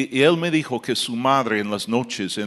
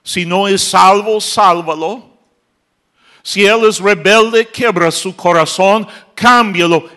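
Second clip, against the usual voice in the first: mother's tearful prayer; 8 semitones higher, 9 dB louder than usual. Retold or imitated. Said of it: "Y ella llorando".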